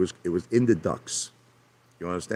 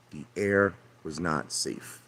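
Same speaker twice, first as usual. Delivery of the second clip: The air was not safe repeated slow and much softer; slow, sinking quieter; 2 semitones lower, 6 dB quieter, slower than usual. Real, not acted.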